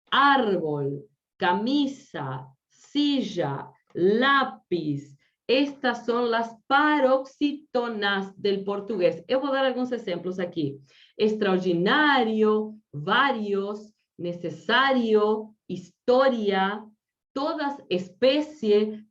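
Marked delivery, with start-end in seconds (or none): 0.1-5.2 "árbol, camisa, silla, lápiz" one by one, leaning on ÁR, MI, SI, LÁ; penultimate stress. Shown as a demonstration. 11.2-16.8 "Extraordinario, varios, necesario, historia" slowly, leaning on NA, VA, SA, TO; penultimate stress. Shown as a demonstration. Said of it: "todas esas palabras do português acentúan".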